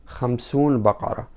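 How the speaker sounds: "خمسون بقرة" said quickly with the full noon of "خمسون"; wrong pronunciation demo. Shown as a demonstration. Teacher showing the dialect mistake to students, quick example. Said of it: "We are not able to say".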